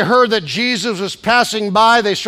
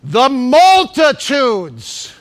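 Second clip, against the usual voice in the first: usual speaking voice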